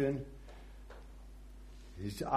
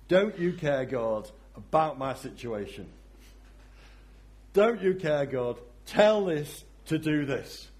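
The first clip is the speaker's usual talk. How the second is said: exasperated plea; 3 semitones higher, 4 dB louder than usual. Acted. Imitating the complaint to God.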